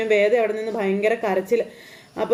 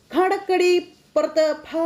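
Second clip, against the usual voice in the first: mock shouting someone out; 7 semitones higher, slower than usual. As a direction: throw her out like the family did, in jest. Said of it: "എന്നും പറഞ്ഞ്". (കളിയാക്കി ആട്ടിപ്പുറത്താക്കുന്ന അലർച്ച)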